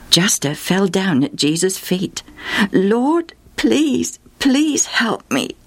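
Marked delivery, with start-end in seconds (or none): 2.7-5.5 high, slow begging please; pleading. Acted. Mother at Jesus' feet pleading for help, high slow begging. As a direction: beg him with all you have. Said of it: "she pleaded".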